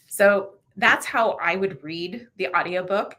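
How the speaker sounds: normal talking voice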